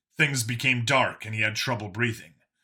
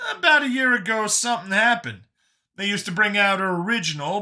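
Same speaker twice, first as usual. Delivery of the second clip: high, animated explanation; Brian, earnest explainer; 8 semitones higher, 4 dB louder than usual. Acted. Brian explaining the clone to Vincent, high and earnest.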